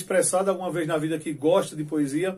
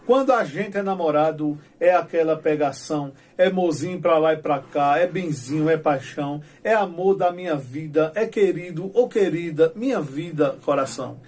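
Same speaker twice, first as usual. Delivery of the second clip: reciting his own cordel verses with rhythm; poem recital; 4 dB louder than usual. Shown as a demonstration. Teacher reading his own poem to the class, rhythmic recital. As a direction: declaim it like a folk poet. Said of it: "E eu iniciei nesse poema dizendo assim".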